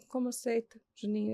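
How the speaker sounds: soft, hushed, barely voiced disbelief; hushed question. Mother quietly questioning her son, hushed. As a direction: keep it down so he won't hear.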